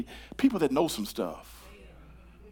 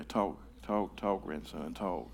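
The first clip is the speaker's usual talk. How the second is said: much softer, low coaxing call; soft encouragement; 9 semitones lower, 11 dB quieter, slower than usual. Real, not acted. Preacher softly egging on his grandson in the pews. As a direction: urge the grandson on quietly. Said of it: "Say it, Luca".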